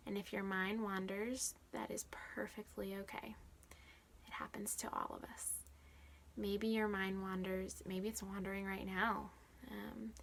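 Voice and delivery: unhurried guiding voice with spacious pauses; guided meditation. Real, not acted. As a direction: ease the listener into the exercise, phrase by phrase.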